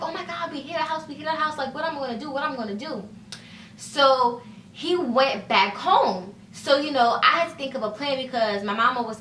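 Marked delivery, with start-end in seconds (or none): 0.0-3.0 mimicking panicked Logan. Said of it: "very mad".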